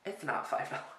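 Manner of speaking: high, loud, disbelieving "What?"; genuinely stunned by the price; shocked. Real, not acted. Shocked at five dollar concealer.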